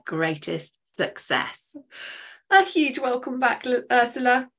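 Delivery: upbeat host read of the guest's bio; podcast intro. Acted. Host introduces her guest to podcast listeners, upbeat announcer read. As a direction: welcome the listeners and sell the guest.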